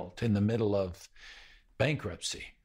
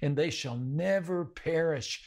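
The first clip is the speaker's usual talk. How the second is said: fervent promise; 7 semitones higher than usual. Retold or imitated. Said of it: "Jesus said".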